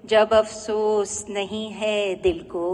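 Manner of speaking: measured ghazal recital with drawn-out line endings; poetry recitation. Acted. Woman poet presenting her ghazal to an appreciative audience, poetry recitation. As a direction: recite each couplet line to an audience, pausing after it.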